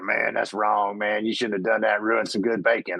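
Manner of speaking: low, grumbling skeptical guy; gruff biker. Retold or imitated. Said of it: "kinda gruff guy".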